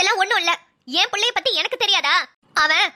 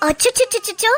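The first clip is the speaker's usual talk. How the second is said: put-on cooing baby talk; slower than usual. Aunt cooing pet names at baby.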